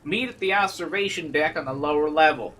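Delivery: put-on light Southern country accent; a brother's note in a hint of country twang; mild Southern accent reading. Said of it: "going with this country accent".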